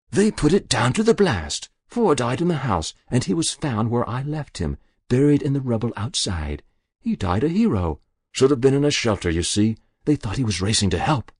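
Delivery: put-on a guilty old woman pleading with the inspector; Muriel's voice. Muriel explains.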